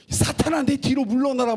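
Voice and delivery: a husband rebuking his wife as Satan, in a mock rebuke. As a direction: thunder it like casting out Satan. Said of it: "막 이렇게 얘기하는".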